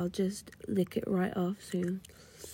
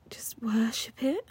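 whispering; 4 semitones higher than usual. Acted.

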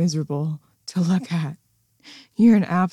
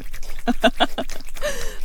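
high, mocking cackle; sneering high laugh; cruel laugh. Mocking laugh mid domination.

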